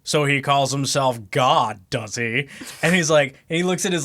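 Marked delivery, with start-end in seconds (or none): 0.0-2.5 lightly voiced haughty guru, drawn out; a slow, put-upon character quote. Retelling an anime parody to friends, lightly imitated guru. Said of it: "the guy who's doing Guru".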